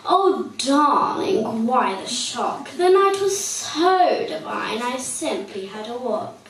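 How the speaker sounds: sweet tweet. Acted. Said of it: "He sweetly tweeted".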